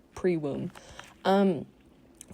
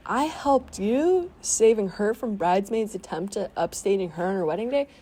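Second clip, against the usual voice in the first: lightly voiced entitled guest, a hint of whine; mock B-Face; 3 semitones higher than usual. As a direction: mimic the bride-wrecker's smug excuse. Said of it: "be like".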